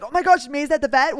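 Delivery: lightly imitated alarm, high and loud; LaDonna. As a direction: voice a friend's sudden dismay. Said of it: "And then LaDonna's like".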